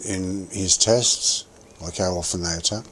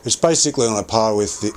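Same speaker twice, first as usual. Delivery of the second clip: yelling. Real, not acted. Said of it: "sorry, I'm yelling".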